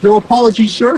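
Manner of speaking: loud, high call; shouting after him. Real, not acted. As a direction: yell it after him as he walks away. Shouting after departing CEO.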